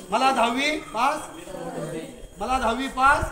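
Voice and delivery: spaced-out prompt for a group response; voiced-up plea. Shown as a demonstration. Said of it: "आवाज कर, आवाज नाही यायचा".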